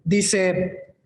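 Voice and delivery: ordinary delivery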